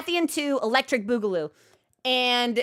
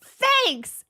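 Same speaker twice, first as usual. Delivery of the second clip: offhand thanks; 11 semitones higher than usual. Retold or imitated. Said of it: "And Alma says".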